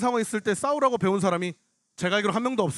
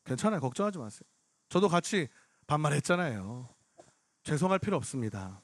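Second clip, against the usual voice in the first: soft, lowered, soothing voice; retold consoling; 5 semitones lower, 5 dB quieter than usual. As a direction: quietly reassure a crying stranger. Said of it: "막 위로를 해주고 있었어요".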